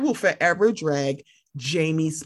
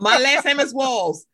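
slow, louder echo of "My last name is Walls"; excited repeat; 4 semitones higher, 5 dB louder than usual. Real, not acted. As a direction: repeat it delighted, savoring "Walls". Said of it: "Wait a minute, hold on".

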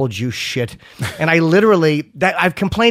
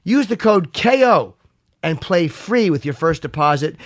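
slow, deliberate sponsor read; slower than usual. Acted. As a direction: read it like a radio ad. Reads a sponsor ad.

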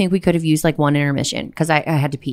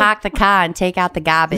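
put-on Boston accent. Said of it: "everybody from Boston's drunk".

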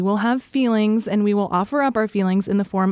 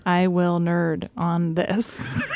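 slow and careful; 2 semitones lower, much slower than usual. Shown as a demonstration. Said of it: "Try it".

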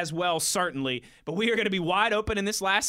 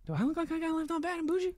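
put-on voice; 8 semitones higher, 6 dB quieter, faster than usual. Repeating joke, put-on voice.

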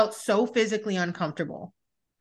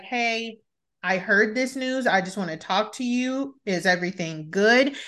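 soft caring check-in; 2 semitones lower than usual. Pretend. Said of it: "I would be like".

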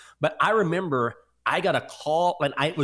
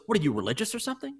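pushy caller; 8 semitones higher, faster than usual. Retold or imitated. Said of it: "He goes".

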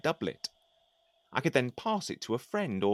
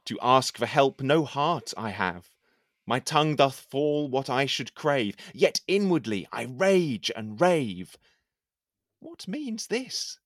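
measured, declaiming poem reading; poem recitation; slower than usual. Acted. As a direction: recite it like a courtly poet. Recites his poem aloud.

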